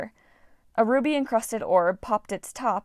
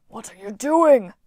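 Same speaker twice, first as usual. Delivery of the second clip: louder, sharp question; demanding; 9 dB louder than usual. A narrator's reading. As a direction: demand an answer from a traitor. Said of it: "Wolfhead demanded".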